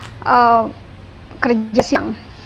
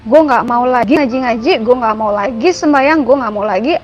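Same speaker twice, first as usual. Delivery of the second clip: retold defiant outburst, mildly raised voice; somewhat loud, rude. Man rudely renouncing his faith aloud to God, somewhat loud and rough. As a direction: recount a rough rant with a touch of force. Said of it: "ngomong agak keras, ngomong agak kasar".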